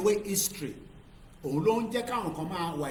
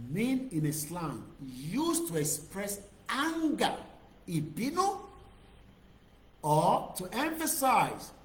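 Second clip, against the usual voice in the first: emphatic definition read; 3 semitones higher, slower than usual. Shown as a demonstration. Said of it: "reading the definition aloud".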